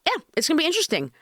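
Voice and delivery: talking around something in the mouth; mouth full. Real, not acted. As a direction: mouth full, words a bit blocked. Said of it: "I have something in my mouth".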